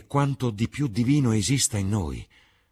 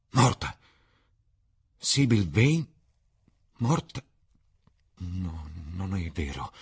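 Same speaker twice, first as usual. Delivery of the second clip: cry of pain; slower than usual. A narrator's reading. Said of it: "Un grido di dolore proruppe".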